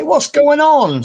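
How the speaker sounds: high, slow baffled question. Retold or imitated. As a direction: ask it utterly baffled. Retold confused question.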